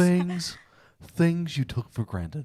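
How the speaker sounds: put-on slow old-timey radio announcer. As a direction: draw out the title like old radio. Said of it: "old-timey voice".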